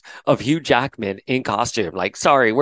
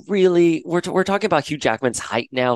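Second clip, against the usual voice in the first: incredulous; 7 semitones higher than usual. Retold or imitated. Incredulous reply to comments.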